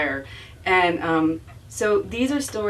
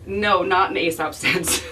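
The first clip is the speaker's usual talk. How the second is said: laughing quote. Retold or imitated. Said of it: "by saying".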